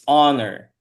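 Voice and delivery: "honor" begun on the vowel, no H; honor with silent H. Shown as a demonstration. Teacher repeating the correction, "honor" with silent H. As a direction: model "honor" with the H left silent. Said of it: "The H in this word is silent".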